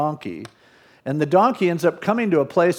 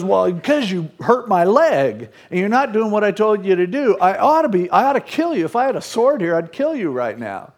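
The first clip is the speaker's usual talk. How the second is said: higher-pitched, worked-up retold rant; mock anger; 5 semitones higher than usual. Balaam scolding his talking donkey for hurting his leg, mock angry. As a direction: act out a heated outburst, pitch climbing. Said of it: "Balaam's so mad".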